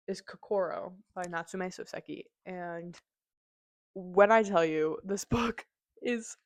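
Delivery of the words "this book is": whispered with a laugh breaking through; conspiratorial whisper. Real, not acted. A reviewer whispering to viewers before a big reveal, laughing whisper. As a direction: lean in and whisper it like a secret.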